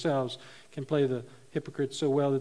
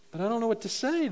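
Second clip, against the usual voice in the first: put-on complaining boy; 7 semitones higher, faster than usual. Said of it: "the boy complained".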